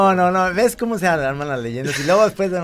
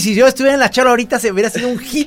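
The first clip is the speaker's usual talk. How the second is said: exclamación alta, fuerte y rápida, riéndose; entre risas; 7 semitones higher, 7 dB louder, faster than usual. Acted. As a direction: dilo atropellado y a carcajadas. Imita una reacción, entre risas. (entre risas, rápido y fuerte)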